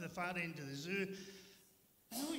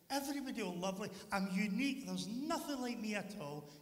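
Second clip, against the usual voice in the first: higher, lively delight in oneself; elated boasting; 4 semitones higher than usual. Acted. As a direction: gush proudly, pitched up. Delighted character praises himself.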